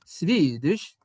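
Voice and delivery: "Swedish" in a put-on Swedish accent. Shown as a demonstration. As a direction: say "Swedish" with a v for the w, Swedish-style. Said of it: "the Swedish sounds so cool".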